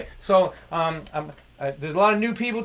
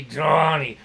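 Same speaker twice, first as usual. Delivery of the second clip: dad's voice; 3 semitones lower, 4 dB louder than usual. Retold or imitated. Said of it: "that's the way he talked".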